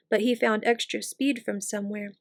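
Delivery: plain reading voice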